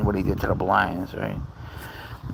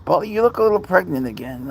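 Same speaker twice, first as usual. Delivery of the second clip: teasing pet talk; 8 semitones higher, faster than usual. Real, not acted. Teasing the cat.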